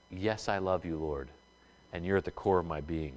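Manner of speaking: soft, hushed vow of love; a quiet, tender vow to the Lord; devoted prayer. Acted. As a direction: whisper it like a private prayer.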